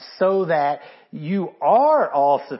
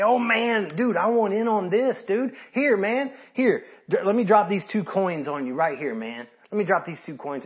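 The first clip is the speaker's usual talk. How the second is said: higher, bubbly mock enthusiasm over small change; excited eager giver; 5 semitones higher than usual. Preacher imitates an excited churchgoer giving fifty cents, eager and higher. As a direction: act out a giddy guy dying to chip in. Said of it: "you get all excited and you say".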